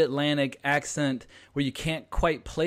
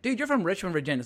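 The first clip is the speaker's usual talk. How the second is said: higher-pitched retold protest, dropping at the end; mock exasperation; 5 semitones higher, faster than usual. Host to Virginian cousin, mock exasperation. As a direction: call out the cousin's pretence.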